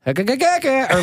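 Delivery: high, slow cartoon bird cackle; stammering attempt at a woodpecker laugh; Woody Woodpecker cackle. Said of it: "I was gonna try to do".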